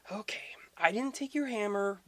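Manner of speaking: high whispered reassurance; a hushed sly god backing down; whispered Loki. Retold or imitated. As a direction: whisper it high, like a sneaky promise. Loki placating Thor.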